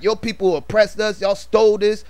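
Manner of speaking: high-pitched retold rant, lightly acted; going ham. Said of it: "he started going ham on her".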